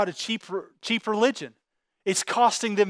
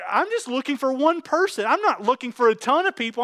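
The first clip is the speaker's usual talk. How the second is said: God's longing; 5 semitones higher than usual. Acted. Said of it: "he goes".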